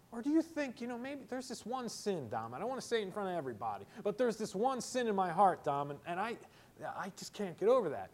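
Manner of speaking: halting, hushed-down confession to the pastor; hesitant confession. Acted. Voices a congregant's hesitant confession.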